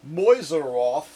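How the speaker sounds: Mäuseroth said again with relish, rising at the end; enjoy saying Mäuseroth aloud; savoring the word. Shown as a demonstration. Repeating Mäuseroth for viewers because it's fun to say. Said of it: "It's kinda fun to even say".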